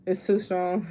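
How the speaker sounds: soft unvoiced whisper. Real, not acted. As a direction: breathe the words without voice. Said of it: "You don't have to whisper".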